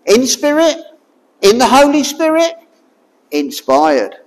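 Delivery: "in spirit" building to "inspired"; words linked. Shown as a demonstration. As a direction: run "in the Holy Spirit" into "inspired". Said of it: "it's a similar word".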